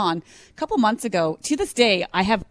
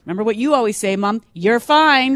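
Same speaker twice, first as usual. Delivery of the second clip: put-on teasing kids; 4 semitones higher, 5 dB louder than usual. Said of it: "they go".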